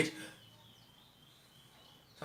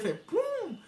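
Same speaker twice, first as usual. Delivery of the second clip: eye pop sound; much slower than usual. Retold or imitated. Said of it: "Tanta força que ele fazia".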